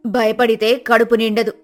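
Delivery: nagging wife. Acted. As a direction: nag the lazy husband awake. Wife insists.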